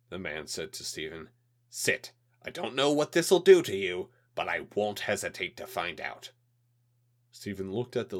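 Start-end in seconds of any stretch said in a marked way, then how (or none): 1.7-6.3 cold threatening official voice, louder; a hint of a menacing alien. Alien liaison threatens at gunpoint.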